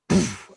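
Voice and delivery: short puffed bang noise; imitated bang. Shown as a demonstration. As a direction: mimic a sudden bang with the mouth. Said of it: "it's bangs".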